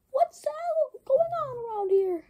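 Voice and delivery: high, loud alarmed voice; startled question. Acted. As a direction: jump in surprise. Sudden surprise at the scene.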